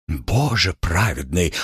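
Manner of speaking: slow, shocked gasp. Acted. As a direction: gasp it out, appalled. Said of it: "ахнула гувернантка".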